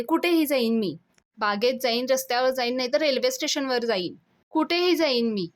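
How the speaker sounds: mock angry outburst. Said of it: "Avni चिडते आणि म्हणते". (चिडून, थोड्या मोठ्या आवाजात हट्टाने)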